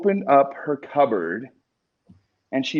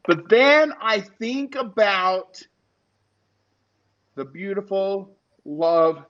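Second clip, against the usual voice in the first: emotional, near tears; 4 semitones higher than usual. Real, not acted. Son talking about mom's cookware, choked up and emotional. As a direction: voice rising and catching with real emotion. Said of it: "I'm sorry I'm so emotional lately".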